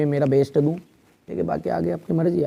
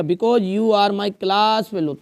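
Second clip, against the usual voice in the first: each word drawn out slowly for copying; slow dictation; 4 semitones higher, much slower than usual. Shown as a demonstration. Teacher dictating an invitation letter to the class, very slow. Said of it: "dictating letter slowly".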